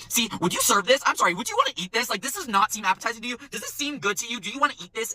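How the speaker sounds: high-pitched mock questioning; pointed, affronted interrogation; indignant customer. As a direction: imitate a diner demanding answers about food. Customer confronting server, retold.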